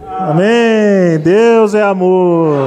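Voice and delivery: slow, stretched preacher's proclamation; drawn-out declaration. Real, not acted. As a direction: hold the vowels long, like a congregational response. Preacher leads congregation in declaration.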